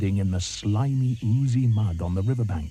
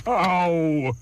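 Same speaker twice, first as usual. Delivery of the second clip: elephant's ow; 7 semitones higher, 4 dB louder than usual. Acted. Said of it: "said Trunky in his big, deep voice".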